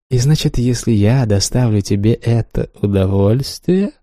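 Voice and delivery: a mild, mocking drawn-out tease; mildly mocking lover's drawl. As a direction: stretch the words to mock him gently. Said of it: "насмешливо протянула Ванда".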